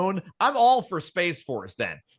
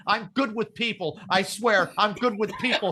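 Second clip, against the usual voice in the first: a hint of a nervous, pleading worker; panicky office worker. Homeland Security as the panicking fat guy, mock pleading. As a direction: beg to keep your job, lightly. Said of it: "freaking out like that fat guy saying".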